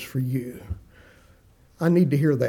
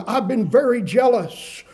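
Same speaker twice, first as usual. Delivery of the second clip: indignant protest, a bit higher and louder; defensive; 5 semitones higher, 3 dB louder than usual. Retold or imitated. Elijah answering God, mildly defensive and raised. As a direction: insist on your own zeal, bristling. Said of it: "he's defensive".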